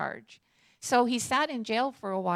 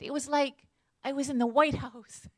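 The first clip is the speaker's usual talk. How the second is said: laughing quote; 4 semitones higher than usual. Retold or imitated. Quoting a man, laughing.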